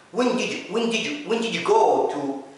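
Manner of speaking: "when did you" blurred into "wendidju"; connected speech drill. Shown as a demonstration. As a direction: run the words together like a native. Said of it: "ركزوا على كلامي". (ربط الكلمات بسرعة)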